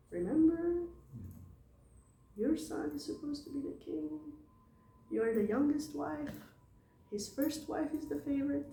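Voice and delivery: a lightly voiced high whispering schemer; scheming maidservant. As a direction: coax her like a sly servant. Scheming maidservant persuades queen.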